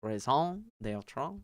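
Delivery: "Raison d'etre" sounded out slowly, anglicized; trying the French. Shown as a demonstration. Working out a French phrase mid-reading, slowly. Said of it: "Keep bringing this French shit".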